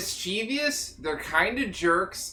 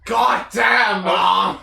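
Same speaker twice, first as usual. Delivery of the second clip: loud shouted complaint; shouting; 6 dB louder, slower than usual. Acted. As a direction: yell like a bratty kid. Kid yelling at mom.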